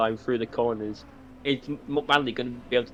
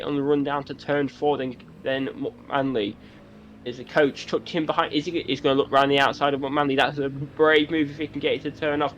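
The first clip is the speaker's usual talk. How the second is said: motorsport commentator; 3 semitones higher than usual. Acted. S1 live race play-by-play.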